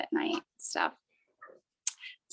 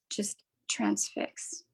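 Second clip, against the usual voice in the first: whisper; 2 semitones lower, 8 dB quieter, much slower than usual. Pretend. Describing being transfixed, relaxed.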